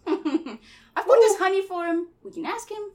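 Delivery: put-on high boyish cockney with a laugh; cockney Christopher Robin. Christopher Robin reassures Piglet in a drifting cockney accent. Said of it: "more and more cockney".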